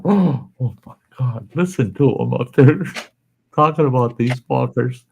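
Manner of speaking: a hint of gasping, scandalized ladies in the crowd; shocked ladies. Ladies in the crowd reacting to the pilot's cussing, mock shocked.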